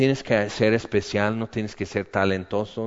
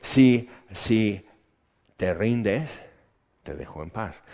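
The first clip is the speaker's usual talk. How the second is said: tempter's voice; slower than usual. Retold or imitated. Preacher voicing the enemy tempting him, sly and hushed. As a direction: murmur a sly offer to give up. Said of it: "el enemigo empieza a decir".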